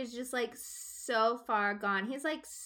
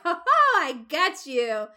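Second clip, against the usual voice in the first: smug mock laugh; 2 semitones higher, 9 dB louder, slower than usual. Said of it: "and he's like".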